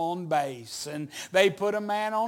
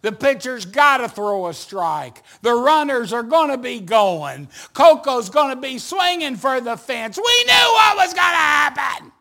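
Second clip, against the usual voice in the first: play-by-play tension climbing to a yell; building excitement; 4 semitones higher, 8 dB louder than usual. Retold or imitated. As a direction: build from loud to a high shout. Building suspense at full count.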